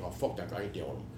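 mimicking a mechanic.

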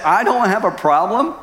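high, rising disbelieving question; incredulous echo. Retold or imitated. Husband quoting God back to him, incredulous. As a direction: throw the words back, voice climbing at the end.

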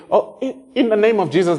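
tossed-off careless invocation; mock someone tossing it off; offhand careless prayer; casual throwaway. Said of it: "like trying to throw it out there".

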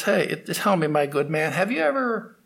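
a learned man showing off to a servant, condescending; condescending pundit. Acted. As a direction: talk down to a lowly boatman. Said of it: "he looked down his nose at that ferryman".

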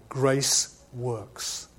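low, soft, weighty headline; headline statement. Shown as a demonstration. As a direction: state it as a spaced-out, quiet headline. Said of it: "Let me give that in a headline".

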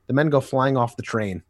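ordinary delivery

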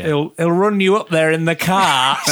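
mock Alan Bennett voice. Mocking a film character's line to co-hosts, in a hammed-up Alan Bennett northern English accent. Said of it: "Sub Alan Bennett".

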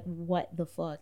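retold stunned reaction, slow and low-key. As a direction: draw it out softly in mild disbelief.

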